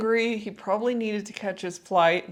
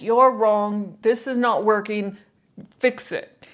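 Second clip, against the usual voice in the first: retold angry passenger, louder on "You're wrong"; rude demanding complaint; 5 dB louder than usual. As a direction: imitate a rude traveller snapping at an agent. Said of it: "his voice, the way he was speaking, was like".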